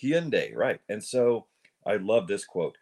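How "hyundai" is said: "Hyundai" slowly as hyun-day, high; official Korean pronunciation. Shown as a demonstration. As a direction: demonstrate "Hyundai" slowly with a y-glide. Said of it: "pointing out it's".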